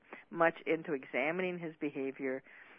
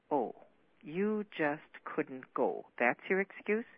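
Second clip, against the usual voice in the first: drawn out slowly, then pitched up and louder at excuse; mocking sarcasm; 2 semitones higher, 5 dB louder, slower than usual. Wife sneering at husband's excuse, slow then sharp. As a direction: throw his words back at him with scorn.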